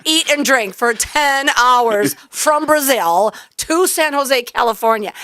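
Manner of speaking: slow, drawn-out mock sorrow; sarcastic pity. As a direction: lay the sarcasm on, imitating the coach. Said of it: "He's like".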